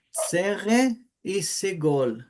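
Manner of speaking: slow, careful vowel names; dita devagar. Shown as a demonstration. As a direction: spell out each vowel name slowly. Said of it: "os dois sons de vogal novos". (pronúncia lenta e cuidadosa)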